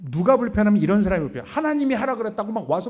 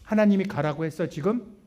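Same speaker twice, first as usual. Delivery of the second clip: pointed question. Retold or imitated. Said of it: "내가 물어봐요".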